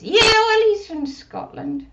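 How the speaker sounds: put-on high little girl puppet voice; squeaky childlike puppet; Susie puppet voice. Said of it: "does Susie practice".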